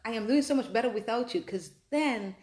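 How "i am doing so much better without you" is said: loud, higher, fast smug boast; mock gloating. Someone showing off to the ex who hurt them, loud mock gloating. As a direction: rub it in like a gloating ex. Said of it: "not let it go to say".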